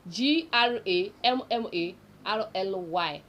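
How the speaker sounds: letter by letter, G R A M M A R L Y; carefully spelling the app name. Shown as a demonstration. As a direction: spell G R A M M A R L Y out one letter at a time. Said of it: "I hope I pronounce it well".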